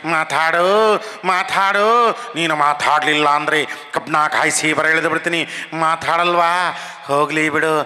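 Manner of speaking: lightly voiced veteran comedian scolding; Narasimharaju impression. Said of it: "ಒಂದು cinema dialogue ಜ್ಞಾಪಕ ಇತ್ತು". (ಹಳೆಯ ಸಿನಿಮಾ ಹಾಸ್ಯನಟನ ಡೈಲಾಗ್ ಶೈಲಿ)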